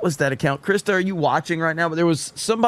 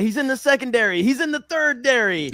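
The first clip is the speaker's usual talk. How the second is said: announcer voice; 6 semitones higher than usual. Retold or imitated. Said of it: "and he's like".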